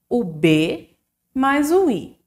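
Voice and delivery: slowly joining the letters B and I; slow letter build. Shown as a demonstration. Teacher showing the class how B and I make a syllable. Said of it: "Pra formarmos o bi".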